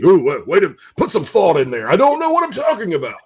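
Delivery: high, laughing self-mockery. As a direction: tease yourself, laughing. Mocking himself, laughing.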